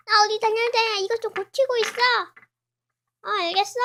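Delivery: loud bossy instruction; bossy orders. Acted. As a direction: order the friend to fix it. Character orders friend to fix.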